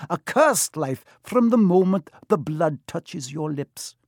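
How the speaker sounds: grave centaur. Acted. Centaur warns boy of cursed life, grave and emphatic. Firenze solemnly explains unicorn blood.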